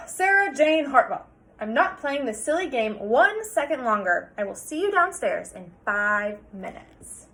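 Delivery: a hint of a firm, fed-up father; mild stern dad. Father ending the argument with his daughter, mildly stern. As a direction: put your foot down. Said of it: "Mister Hartwell sighed".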